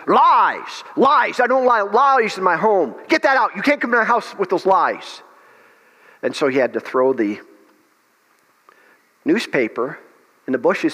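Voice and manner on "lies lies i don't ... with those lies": put-on Smith Wigglesworth's stern English accent. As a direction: thunder the rebuke in a rough English accent, pitched up. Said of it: "real raw English accent".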